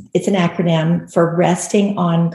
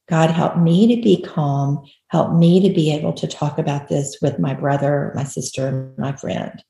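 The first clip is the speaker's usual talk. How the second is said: modeled prayer; 3 semitones lower than usual. Retold or imitated. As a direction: pray humbly and let the voice trail away. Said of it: "we bow our heads and say".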